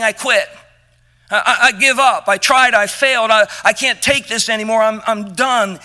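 mock defeat. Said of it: "he wasn't saying".

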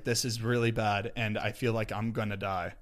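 slow, soft, quietly scared; low dread, said slowly; retold panic. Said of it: "I was like".

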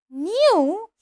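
high, loud shriek of disbelief; sudden shriek. A narrator's reading. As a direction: shriek it in outrage. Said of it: "shrieked Aunt Petunia suddenly".

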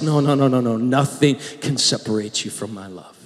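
a lightly voiced tender Christ; tender reassurance. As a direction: soothe them as Jesus would. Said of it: "He still says".

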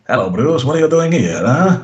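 rising, hammed-up Italian accent, pitch climbing high; the Doctor's jokey Italian accent greeting Bruce, like Bertorelli; mock Italian accent. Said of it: "his finest impression of Captain Bertorelli from Allo Allo".

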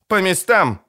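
captain shouting her soldiers to their places; shouted command. A narrator's reading. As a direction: call the squad to their posts. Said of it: "крикнула Райла".

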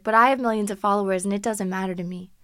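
lightly voiced smug influencer; a hint of a boastful guy; mock humble bragging; humblebrag imitation. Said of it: "he tried to be like".

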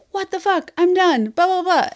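high-pitched exasperated ranting; retold rant. Reader re-enacting her rant to friends, retold exasperation. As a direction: throw up a mock fit, voice pitched high.

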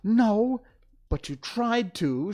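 high, loud snapping comeback; girl snapping back at the lion, high and loud; sharp retort. A narrator's reading. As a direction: shoot it straight back at him. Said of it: "she retorted".

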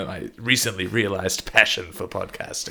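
teasing repeat of the phrase; playful mocking echo. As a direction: throw the line back at him, amused.

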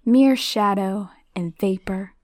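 husky eerie whisper; the villain describing his weakness. Acted. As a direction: breathe it like smoke. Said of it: "the face said".

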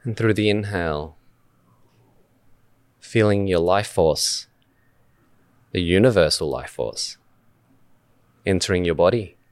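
unhurried meditation guide, long pauses between phrases; measured guided-meditation delivery with spacious silences. Acted. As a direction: lead listeners gently through breath awareness, phrase by phrase. Leads a meditation.

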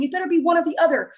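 mildly acted frantic insistence; retold freak-out. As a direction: imitate a freaked-out demand. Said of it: "but I freak out".

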